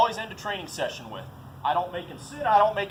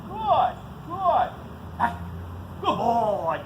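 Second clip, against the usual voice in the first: high, bright praise for the dog; high excited dog praise; 4 semitones higher, much slower than usual. Real, not acted. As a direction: lift the voice way up to reward. Praising dog after retrieve.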